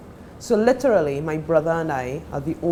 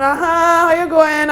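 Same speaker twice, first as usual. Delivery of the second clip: imitating mother on phone; 11 semitones higher, 9 dB louder than usual. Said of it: "your mother used to answer the phone".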